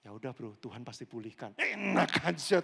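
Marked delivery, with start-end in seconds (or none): 0.1-1.5 mock casual brush-off. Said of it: "cuma ngomong gini".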